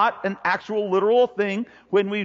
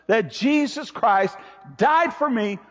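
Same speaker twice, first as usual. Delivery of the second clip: emphatic preaching; 3 semitones higher, slower than usual. Real, not acted.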